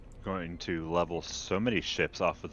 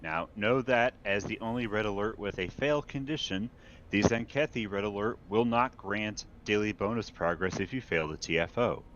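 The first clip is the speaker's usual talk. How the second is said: lightly voiced grand imperial announcer; imperial herald proclamation; 2 semitones higher than usual. Reads the news as imperial herald.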